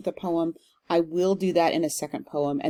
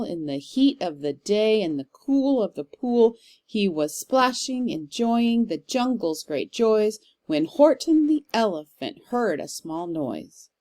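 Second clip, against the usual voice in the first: lilting, rhythmic Seuss reading; reading verse aloud; 2 semitones higher than usual. Shown as a demonstration. Teacher reading Seuss to her class, lilting and rhythmic. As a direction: bounce through the anapests like a storybook. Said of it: "So I'll read this aloud".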